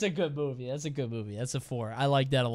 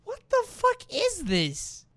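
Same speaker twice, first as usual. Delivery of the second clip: high, stretched-out shocked question; can't believe what you're seeing; shocked disbelief; 12 semitones higher, 5 dB quieter than usual. Real, not acted. Reacting to a bizarre clip, shocked disbelief.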